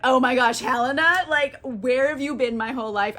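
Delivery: hammed-up amazed greeting; mock lovestruck surprise. Demetrius waking and seeing Helena, mock lovestruck surprise. Demetrius wakes, sees his love.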